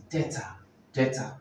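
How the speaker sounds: debtor said as DET-er, silent b; model pronunciation. Shown as a demonstration. Teacher modelling a commonly mispronounced word, debtor with silent b. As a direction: say "debtor" without any b sound. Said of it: "words you're probably mispronouncing".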